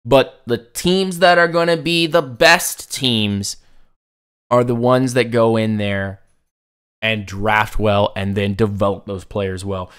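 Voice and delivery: raw, strained throat; pushing through a sore throat. Real, not acted. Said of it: "my throat is raw".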